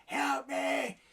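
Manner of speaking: rising cries of help, hammed-up; mock plea for help. Inmate at the hospital window, mock begging. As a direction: beg through the glass. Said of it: "and he goes".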